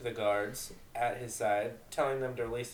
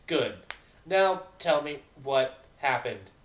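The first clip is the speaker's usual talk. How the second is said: stern captain; 2 semitones higher, 6 dB louder, slower than usual. Acted.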